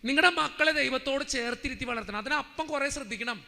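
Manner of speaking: preaching. Acted. Preacher urging families to draw close to God, emphatic preaching. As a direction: urge the congregation with firm conviction.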